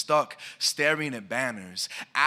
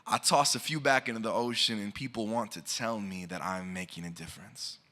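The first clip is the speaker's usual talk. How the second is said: measured, rhythmic spoken word delivery; slam poem recitation. Acted. Poet reciting to the audience, rhythmic spoken word. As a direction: perform the poem to a listening room.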